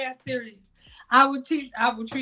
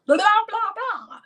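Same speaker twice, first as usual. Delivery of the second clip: dismissive blah blah; 8 semitones higher, 3 dB louder than usual. Real, not acted. Mocking filler.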